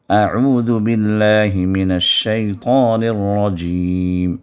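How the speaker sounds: drawn-out, measured tajweed chant; slow Quran recitation. Shown as a demonstration. Teacher reciting Surah Al-Asr for students, slow chant. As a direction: recite each word slowly and melodically.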